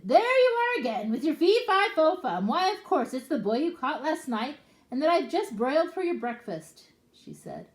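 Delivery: high, loud nagging wife voice; wife tells off the ogre for his fuss; scolding ogre's wife. Acted. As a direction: scold him like a fed-up wife.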